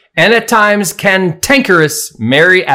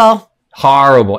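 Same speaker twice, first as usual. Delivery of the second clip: louder horrible; stressed again; 4 dB louder than usual. Real, not acted. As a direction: punch "horrible" once more. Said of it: "Let me emphasize".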